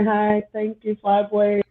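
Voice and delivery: ordinary talk, nothing marked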